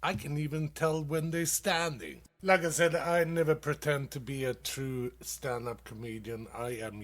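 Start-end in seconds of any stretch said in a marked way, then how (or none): none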